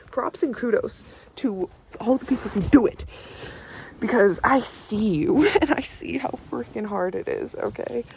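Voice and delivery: shivering from the cold; words shaking with cold. Real, not acted. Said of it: "I'm freezing up here now".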